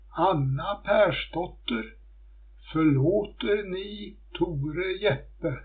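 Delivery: calling out. Acted. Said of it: "ropade hon ut över sjön".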